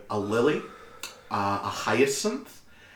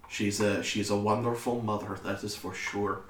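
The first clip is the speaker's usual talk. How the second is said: lightly voiced, accented courteous son; a touch lower, reserved and formal; polite Tobias; 4 semitones lower, 6 dB quieter than usual. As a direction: speak haltingly and politely in accent.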